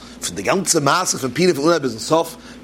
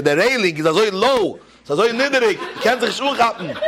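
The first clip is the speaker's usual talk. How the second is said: put-on complaining drunk; 6 semitones higher than usual. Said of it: "Rief zu einer anderen".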